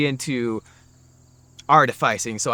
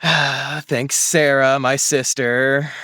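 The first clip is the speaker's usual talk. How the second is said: sighing thanks; much slower than usual. Real, not acted. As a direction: thank her slowly with a sigh.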